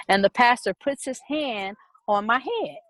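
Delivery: usual speaking voice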